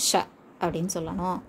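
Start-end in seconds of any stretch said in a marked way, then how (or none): 0.1-0.2 ஷ midway between light sa and heavy sha. Shown as a demonstration. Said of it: "ரெண்டுக்கும் நடுவுல".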